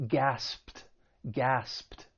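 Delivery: "gasped" ending in a voiceless P-T cluster; "gasped" with a crisp pt at the end. Shown as a demonstration. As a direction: model "gasped" slowly as one syllable with a final T. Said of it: "the E D is going to take on a T sound".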